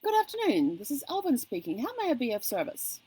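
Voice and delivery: high, chirpy mock call-centre greeting, a light imitation; chirpy call agent. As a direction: pitch the agent's script up high and sing-song. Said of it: "he's going".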